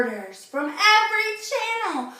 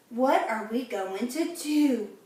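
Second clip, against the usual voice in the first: crying out; 2 semitones lower than usual. Acted. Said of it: "cried Missus Cream".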